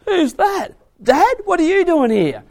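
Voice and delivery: high, loud mock bewilderment; startled sons-in-law. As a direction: act startled at being woken. Acted sons-in-law woken at night.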